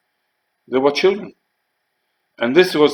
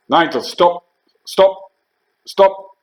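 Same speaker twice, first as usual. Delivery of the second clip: high, insistent calls to stop; mock shout, each word set apart; retold shout; 8 semitones higher, 4 dB louder, much slower than usual. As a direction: imitate a corporal shouting orders, voice pitched up. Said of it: "Scouse was shouting me".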